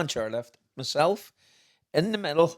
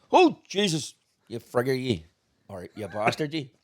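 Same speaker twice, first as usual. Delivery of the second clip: imagined annoyance. Retold or imitated. Imagined annoyed friend's reply.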